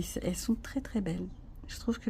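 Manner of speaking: whispering. Real, not acted. Admiring cards softly.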